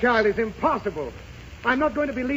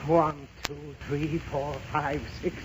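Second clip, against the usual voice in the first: counting to calm down; 8 semitones lower, 7 dB quieter, slower than usual. Acted. Father counting to ten for temper.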